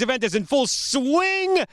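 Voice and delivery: breathless after a fast pitch; winded, short of air; out of breath. Real, not acted. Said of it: "I'm out of breath".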